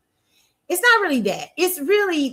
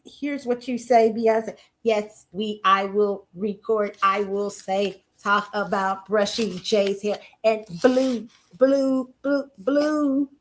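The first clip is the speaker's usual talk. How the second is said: slow, flat, lowered mock robot singer; robotic impression of a singer; 3 semitones lower, slower than usual. Vlogger mocking a singer as an AI reading a script, slow robotic drone. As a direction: spell it out slowly like a programmed AI. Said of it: "the A I Beyonce".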